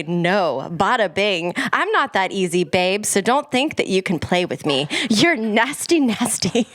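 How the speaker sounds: mock-sassy delivery of pop lyrics; dramatic reading. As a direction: read each lyric line as a dramatic declaration. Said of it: "Dramatic reading, cold read".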